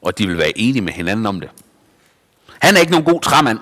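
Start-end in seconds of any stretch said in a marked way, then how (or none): 2.6-3.6 mocking crowd. A narrator's reading. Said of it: "sagde de".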